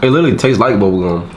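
biting a thin stick; talking while chewing. Real, not acted. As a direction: mouth partly full of snack. Seen 0: Red-cap speaker bites stick before, talks, then returns it to his mouth.

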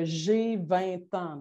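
"J'ai vingt ans" said slowly, syllable by syllable; slow demo sentence. Shown as a demonstration. (« J'ai vingt ans » dicté lentement)

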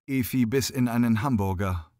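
ordinary delivery, nothing marked

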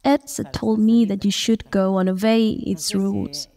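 usual speaking voice

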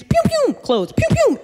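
high-pitched cartoon "pew pew"; imitated flying noise. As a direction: make shoes go flying with quick high pews. Imitating shoes and clothes flying.

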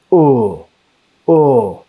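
pure open "O", held alone; teacher isolating the vowel "O"; vowel demonstration. Shown as a demonstration. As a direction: sound out "O" as a free vowel. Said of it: "When we pronounce O".

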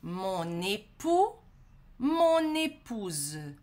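slow, careful liaison; slow model pronunciation. Shown as a demonstration. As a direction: draw out each "mon" link. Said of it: "eu vou usar o mon aqui". (ligação bem devagar)

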